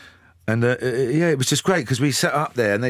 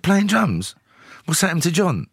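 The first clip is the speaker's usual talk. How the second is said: incredulous; 9 semitones higher than usual. Retold or imitated. Told he's rejoining on drums, he echoes it in disbelief. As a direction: echo it back in shocked disbelief.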